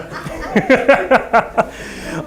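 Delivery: rhythmic breathy chuckle; a run of voiceless ha-ha laughs; laughing. Real, not acted. Host after his art gallery joke, laughing.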